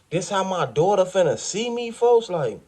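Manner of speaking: rising into tearful despair; crying. Retold or imitated. Imagining his daughter seeing him like this, voice climbing toward tears. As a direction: voice climbing as it starts to break. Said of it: "I was crying".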